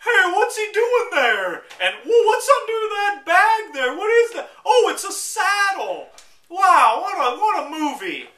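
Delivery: high, loud, drawn-out mock voice; hammed-up clueless audience member; mock loud moviegoer. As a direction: blurt out a running commentary way up high. Imitates loud talkers during the movie.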